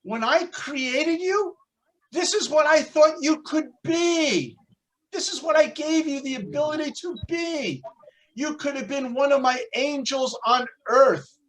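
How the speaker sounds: God proudly unveiling what you could be; excited God. Acted. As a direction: beam with pride, showing off a masterpiece. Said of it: "And God, all excited, says".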